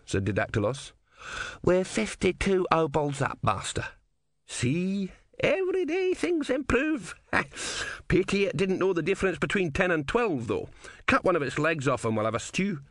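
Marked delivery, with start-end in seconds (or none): 1.6-12.8 pleased with the takings; a scruffy old rogue, high and gleeful; grubby old philosopher. Acted. Ern and Didactylos count winnings.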